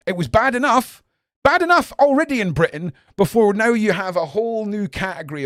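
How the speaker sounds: loud, high-pitched indignation; real outraged rant; worked-up rant. Real, not acted. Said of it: "just another little rant".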